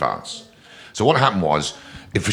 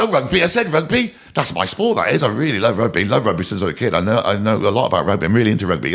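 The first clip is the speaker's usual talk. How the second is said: retelling his own overkeen gush, first words pitched higher; eager rugby fan; 3 semitones higher than usual. Retold or imitated. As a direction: lay it on thick like a keen know-all. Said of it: "And I kinda sort of said it like that".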